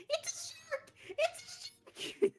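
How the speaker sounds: high, piercing panicked-alarm yell. Acted. Damien warning the others as they run, yelling. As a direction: shout it loud and high as a warning. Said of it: "Damien just yelling".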